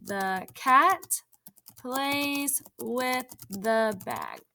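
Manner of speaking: slow dictation, word by word. Shown as a demonstration. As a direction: spell it out for them to type. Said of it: "now type the rest of the words".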